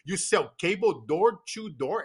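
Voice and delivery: slowed-right-down question; slow careful speech. Retold or imitated. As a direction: imitate your younger self speaking very slowly. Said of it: "I used to speak very slowly".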